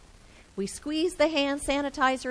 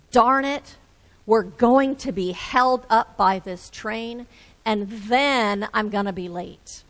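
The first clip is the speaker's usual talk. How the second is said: frustrated dad; 6 dB louder than usual. Acted.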